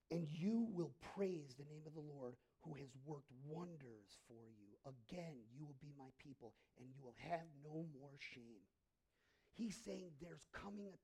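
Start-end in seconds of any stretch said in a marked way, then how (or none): 0.1-8.6 scripture reading. Acted. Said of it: "scripture read".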